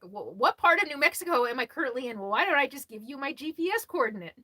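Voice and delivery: lightly sarcastic mock question. Answering a viewer's question with light sarcasm. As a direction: tease the asker with mild sarcasm. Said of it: "I'm about to get sarcastic".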